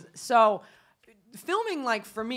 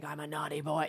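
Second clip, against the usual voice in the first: lower, softer Southern caller; Southern accent; 5 semitones lower, 7 dB quieter than usual. Retold or imitated. Caller confessing to the mistress, imitated Southern accent. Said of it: "this guy with a Southern accent".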